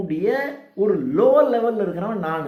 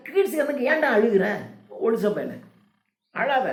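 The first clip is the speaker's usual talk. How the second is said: quick, higher-pitched playful telling-off; mock scolding; 5 semitones higher than usual. Lecturer voicing a rebuke to the mourner, mock scolding. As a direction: chide a crybaby in colloquial Tamil.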